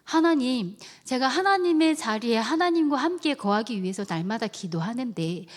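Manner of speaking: mild retold grumble to God; lightly acted complaint; complaining prayer. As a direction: protest to God, aggrieved. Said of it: "불평도 했었거든요".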